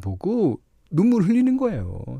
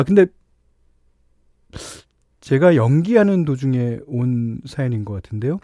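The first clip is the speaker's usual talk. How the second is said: usual speaking voice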